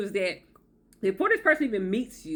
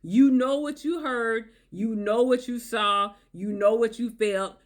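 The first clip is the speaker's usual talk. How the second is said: sincere reassurance; slower than usual. Real, not acted. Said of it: "reassuring viewers".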